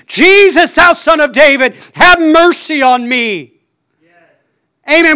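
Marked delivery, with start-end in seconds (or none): 0.1-3.5 preacher acting out the blind beggar's cry; desperate scream. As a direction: cry out for mercy with everything in you. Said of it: "he screamed".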